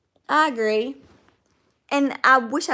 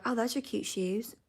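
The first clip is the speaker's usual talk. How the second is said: inner shopping voice; 8 dB quieter than usual. Retold or imitated. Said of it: "I'll be like".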